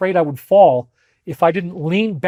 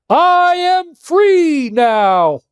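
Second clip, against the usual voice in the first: hero voice; 10 semitones higher, 3 dB louder, much slower than usual. Retold or imitated. Retelling triumphant decree in wind.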